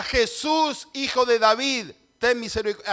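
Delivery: grito de Bartimeo. Acted. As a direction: call out to Jesus over a crowd. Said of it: "No grita". (grito alto y agudo)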